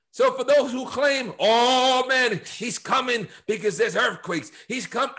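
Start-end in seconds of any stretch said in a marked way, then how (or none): 1.4-5.1 mock end-times preaching, pitched up; imitating alarmist preachers. Pastor mimicking those who claim he's coming, higher mock preaching. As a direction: lightly act a preacher announcing the end. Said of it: "I've heard literally people preach like this".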